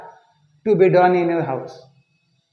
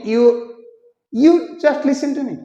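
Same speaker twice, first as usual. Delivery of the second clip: ordinary talk, nothing marked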